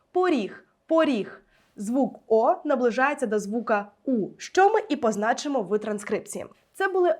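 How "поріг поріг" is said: поріг, with the unstressed о pulled towards у, said twice; careful pronunciation demo. Shown as a demonstration. Teacher asking students to listen to how she says поріг. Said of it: "Почуйте, як я вимовляю це слово".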